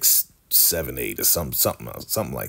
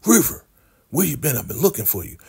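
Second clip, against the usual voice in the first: calling out; 9 semitones higher, faster than usual. Retold or imitated. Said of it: "here comes Scumbag Manny".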